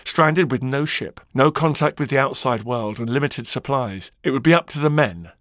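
dramatic storyteller with measured pauses; documentary narration. Acted. Podcast host recounts Shackleton's expedition, dramatic documentary narration. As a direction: build the story of the doomed voyage.

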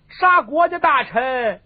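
high, loud, drawn-out reproach; indignant matriarch, words stretched out; stern rebuke. Acted. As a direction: scold a grown son slowly and forcefully. Empress dowager scolds the emperor.

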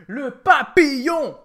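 loud, high, slow hysterical cry. Real, not acted. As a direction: burst out hysterically. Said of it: "je deviens hystérique".

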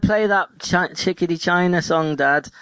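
put-on high-pitched little kid voice; pretend child. Imagined baby asking dad for a song, playful child voice.

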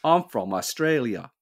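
light, unsure Australian accent; attempted Australian accent. Shown as a demonstration. Host trying an Australian accent on request. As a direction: have a modest go at Australian. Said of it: "Can you do Australian?".

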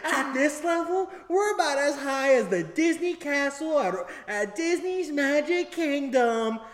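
high, loud, stretched announcer voice building to a shout; hammed-up theme-park recording, swelling to a bellow; ride narration. Recorded narrator telling riders how high they are, grandly overblown. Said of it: "There's narration talking about how high".

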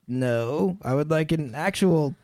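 lightly put-on Canadian accent, mild objection; Danny DeVito, Canadian accent. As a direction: object gently as a Canadian deli customer. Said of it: "he doesn't like their prices".

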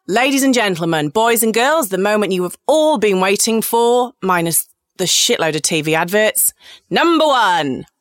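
hammed-up ringmaster introduction; playful build-up to a grand reveal; mock announcer. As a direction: announce the big moment like a show host. Mock announcement of the top story.

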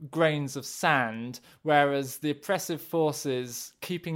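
lightly voiced cartoon baddie gloating; cartoon villain. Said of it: "do you want me to do a cartoon villain impression of the listener".

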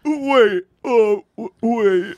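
high startled wait; stunned disbelief. Real, not acted. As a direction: stop short in disbelief. Stunned reaction to the joke.

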